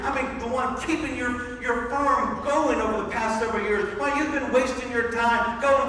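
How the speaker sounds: a hint of jealous fury at his father; angry older son. Older son rebuking his father over the party, angry. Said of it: "He's so angry".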